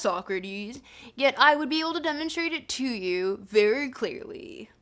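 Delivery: put-on laid-back California surfer accent. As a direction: read it like a SoCal surfer dude. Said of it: "I'm doing Euthyphro and the surfer accent".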